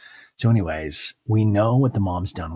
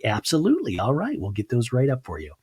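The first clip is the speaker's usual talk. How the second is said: lightly voiced obliging waiter. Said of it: "the waiter's like".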